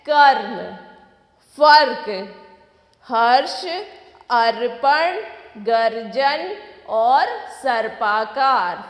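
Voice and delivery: कर्म, फर्क, हर्ष each called out loud, one by one; loud word list. Shown as a demonstration. Teacher reads the र words from the book aloud. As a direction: call each word out for the class. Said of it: "हमारे र के शब्द हैं".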